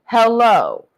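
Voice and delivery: booming mock address to all of Earth; megaphone announcement. Broadcasting to the Earthlings as God, booming. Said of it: "I need Earth's megaphone".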